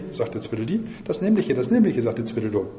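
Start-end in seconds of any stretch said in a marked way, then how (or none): 1.0-2.0 moderately raised, higher cry; mild read-aloud shout. A narrator's reading. Tweedledum shouts it at Alice, mildly raised voice. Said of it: "Dabei schrie er so laut".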